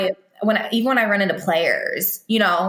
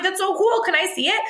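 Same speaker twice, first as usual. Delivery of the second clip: put-on higher, bright voice for a kid; cooing to a child; 11 semitones higher than usual. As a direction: gush at a child's craft.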